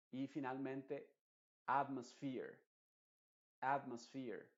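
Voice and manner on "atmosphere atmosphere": atmosphere with AT strongest, sphere second; stress on AT. Shown as a demonstration. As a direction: punch the first syllable of atmosphere. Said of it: "está llevando la, la fuerza de la voz". (atmosphere con la fuerza principal en AT)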